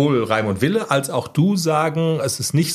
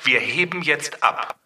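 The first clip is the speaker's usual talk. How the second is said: pilot announcement; 3 semitones higher than usual. Pretend. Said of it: "das könnte Klecks gestern gewesen sein".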